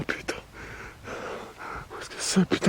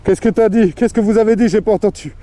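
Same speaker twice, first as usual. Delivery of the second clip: calling out; 6 semitones higher, 7 dB louder than usual. Real, not acted. Reacting to a heard voice.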